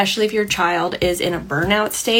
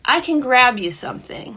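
lightly lilting, higher-pitched offer; gentle, loving; 4 semitones higher than usual. Shown as a demonstration. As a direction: reassure an upset child with an easy offer. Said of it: "a gentle, loving sentence".

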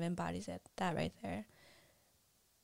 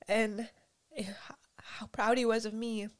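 crying; 2 semitones higher than usual. Real, not acted. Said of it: "I'm just crying".

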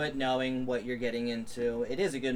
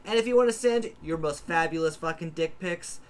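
projected sign-off, each phrase starting high and dropping; podcast announcer; 5 semitones higher than usual. Acted. Host asking listeners for ratings and mail, announcer style. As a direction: rattle through the plugs like a show host. Outro plugs.

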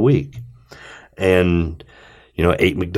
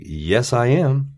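slow defiant insistence; 6 semitones higher, much slower than usual. Retold or imitated. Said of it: "I was like".

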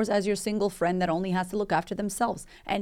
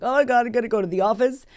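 higher, louder, fast mock panic over leaving; 5 semitones higher, 6 dB louder, faster than usual. To herself that morning, leaving her kids, panicked blurt. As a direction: blurt it out in a rush of dread.

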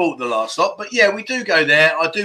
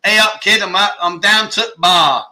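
put-on light Yorkshire accent, a touch louder and higher; mock Yorkshire accent; 3 semitones higher, 4 dB louder than usual. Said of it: "I love the accent".

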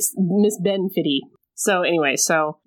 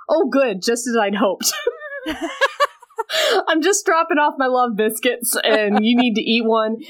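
lightly witchy voice, higher and eager; witchy woman; 6 semitones higher than usual. Retold or imitated. The witch Fenella gloating as she drops off love biscuits, lightly witchy. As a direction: play the scheming witch, pleased with herself. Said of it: "the, the witchy one".

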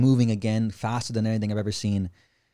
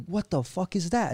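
high, slow, hushed disbelief; stunned; 7 semitones higher, 4 dB quieter than usual. Retold or imitated. Friends staring up at the glowing disc, stunned. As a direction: gasp it out in awe. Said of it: "then we're like".

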